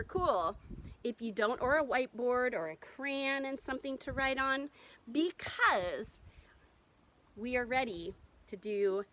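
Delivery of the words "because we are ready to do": whispering. Acted. Teacher builds suspense.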